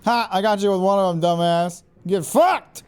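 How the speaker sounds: loud gloating shout at the enemy; real victory shout in the heat of a fight; triumphant yell. Real, not acted.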